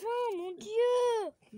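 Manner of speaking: dramatic exclamation. Real, not acted. Reacting while drawing names.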